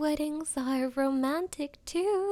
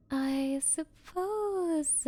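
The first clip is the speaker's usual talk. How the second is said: ordinary talk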